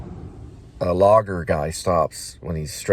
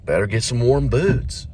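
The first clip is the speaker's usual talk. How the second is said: lightly voiced ghostly father, higher, long pause after the opener; a hint of Hamlet's ghost as a dad; fatherly voice; 5 semitones higher than usual. Ghost of a father advising his jogging son, lightly fatherly. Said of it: "we gotta put in the fatherly voice".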